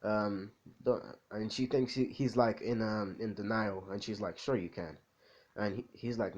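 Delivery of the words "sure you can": low, soft humoring sarcasm; mildly sarcastic. Acted. Mother thinks her son is in denial, mildly sarcastic. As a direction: humor him without believing a word. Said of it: "being, like, sarcastic or something".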